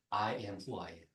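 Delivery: soft, hushed, reverent recitation; quiet solemn quote. Shown as a demonstration. Preacher quoting God's name to the church, hushed. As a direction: breathe it low like a holy name. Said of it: "그 유명한 말이에요".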